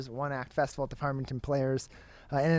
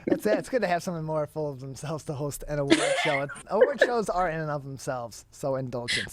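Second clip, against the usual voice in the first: chuckling through the words; laughing while talking; 3 dB louder than usual. Real, not acted. Host teasing about award shows, laughing as he speaks. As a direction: talk through a laugh, amused.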